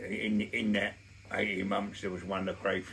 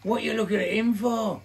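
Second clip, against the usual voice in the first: high, louder, outraged comedian; a much higher, louder affronted voice; indignant squeal; 12 semitones higher, 5 dB louder than usual. Retold or imitated. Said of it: "he looked at me and he goes".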